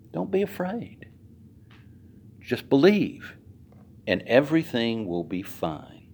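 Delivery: soft, gentle reassurance; Jesus calmly reassuring the grieving father. Shown as a demonstration. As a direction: comfort him quietly. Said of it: "how he must have said that to him".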